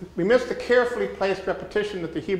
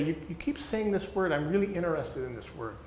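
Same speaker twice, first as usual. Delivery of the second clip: gentle curious listener; 5 dB quieter than usual. Retold or imitated. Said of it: "we say".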